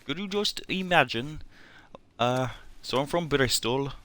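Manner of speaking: badly faked Bristol accent; Bristolian accent attempt. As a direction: try a Bristolian accent, not quite getting it. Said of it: "I'm not doing it correctly at all".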